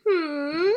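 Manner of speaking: mock hum. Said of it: "Me being like".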